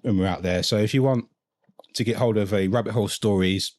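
talking while chewing; words through a mouthful of food; mouth full. Real, not acted. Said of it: "I'm chewing like mad here".

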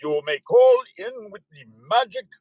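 slow, high vampire count voice; hammed-up Transylvanian announcer; Count Dracula. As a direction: count it out like a cartoon vampire, laughing ah-ah-ah. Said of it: "I feel like Count Dracula".

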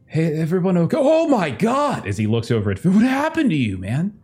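high, nervous scrawny guy; a jittery, skinny voice. Acted. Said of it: "He's like".

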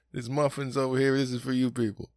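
high, put-on voice of a bossy mom; mock stern mother. Mother telling kids the muffins are theirs, high put-on voice. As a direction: shoo the kids off the good cake.

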